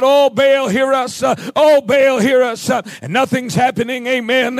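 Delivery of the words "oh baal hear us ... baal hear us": mock plea to a god, raised a little; crying out. Prophets of Baal calling upon their god, crying out. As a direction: cry out in repeated appeal, preacher-style. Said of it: "they're crying out".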